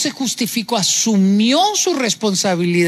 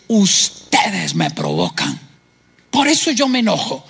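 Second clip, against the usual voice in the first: immature blaming voice; 3 semitones lower than usual. Retold or imitated. Preacher mimicking an immature man blaming others. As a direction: act out the excuse of someone who blames everyone.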